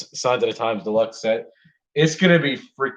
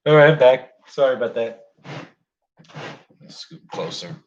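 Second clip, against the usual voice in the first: calling back from far away; from another room; 4 semitones higher, slower than usual. Real, not acted. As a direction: voice from a distant room. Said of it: "You may hear me from the other room".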